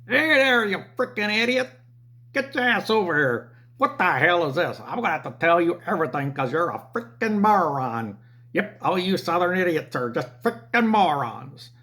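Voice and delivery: hammed-up rude New Jersey customer; Jersey accent. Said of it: "These guys that came in were from Jersey".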